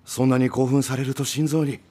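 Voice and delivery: urgent worried plea. Acted. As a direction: stop him firmly. Elder pleads to stop fight.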